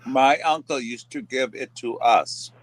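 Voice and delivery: flat robot voice; even, mechanical robot voice. Real, not acted. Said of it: "Why do you talk like a robot?".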